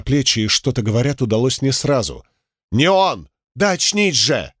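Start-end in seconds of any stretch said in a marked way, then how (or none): 2.7-4.5 urgent shout. Acted. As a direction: shake him awake with your voice. Friend shaking him awake.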